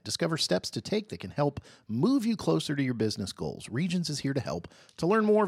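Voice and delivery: smooth sponsor read, steady pace. Acted. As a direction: read it like a radio spot. Host reads sponsor ad.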